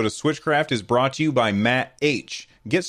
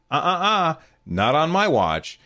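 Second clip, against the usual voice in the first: mustache twirling villain; 5 semitones higher than usual. Pretend. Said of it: "let's do some mustache twirling".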